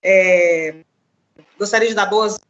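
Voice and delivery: choppy line cutting out; words freezing over bad connection; breaking up. Real, not acted. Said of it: "Você tá travando um pouquinho".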